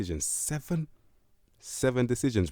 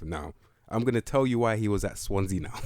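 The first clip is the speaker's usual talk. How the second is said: laughing; 4 dB louder than usual. Real, not acted.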